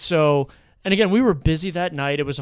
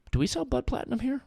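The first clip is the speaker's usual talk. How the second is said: higher-pitched puzzled question; retold coworker's query; 9 semitones higher, 4 dB quieter than usual. Coworker asks the bartender about a beer, higher-pitched imitation.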